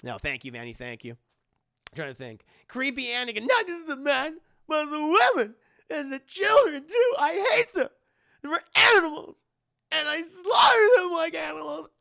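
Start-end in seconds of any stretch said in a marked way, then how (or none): 2.7-11.9 high, loud unhinged Anakin rant; creepy Anakin. Retold or imitated. Streamer doing a creepy Anakin quote, loud. Quoting Anakin Sith speech.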